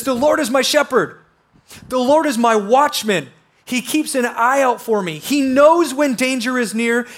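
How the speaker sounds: fervent sermon reading; preaching. Acted. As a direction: proclaim each line like a promise. Reads expanded verse with force.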